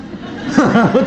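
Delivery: short real laugh at his own joke; a burst of amused laughter. Real, not acted. Preacher laughing at his own husband anecdote, real laugh.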